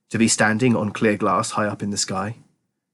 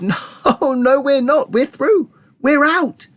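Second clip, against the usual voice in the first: high, triumphant cries; elated high-pitched announcement; jubilant; 13 semitones higher, slower than usual. A narrator's reading. Wonka jubilant as lift breaks through.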